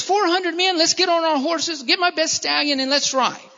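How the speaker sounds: lightly acted order to ride out; rallying command. Esau acted rallying his men.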